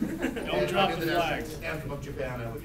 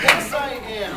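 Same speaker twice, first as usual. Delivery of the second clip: lightly put-on Canadian accent; 8 semitones higher, 8 dB louder, slower than usual. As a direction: answer in a hint of a Canadian accent. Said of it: "Where the hell did that accent come from?".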